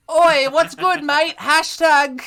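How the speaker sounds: high, loud cheeky cockney bear; Paddington. Pretend. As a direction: squeak it out like a cheeky youth. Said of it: "Paddington was like".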